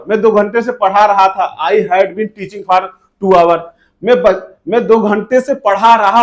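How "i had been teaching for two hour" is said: slow model sentence. Shown as a demonstration. Teacher models English sentence. (बहुत धीरे-धीरे, अंत में ज़ोर से)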